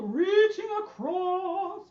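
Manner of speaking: slow, loud, moderately high swoop; sing-song it in the middle register. Shown as a demonstration. Teacher moving the stretch call to the middle, slow sing-song. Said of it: "do the middle".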